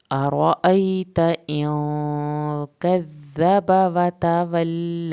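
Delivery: very slow melodic chant; slow recitation. Shown as a demonstration. Teacher to students: very slow tajweed chant. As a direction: intone the verse with long holds. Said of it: "با کی زبر کو بھی لمبا نہیں کریں".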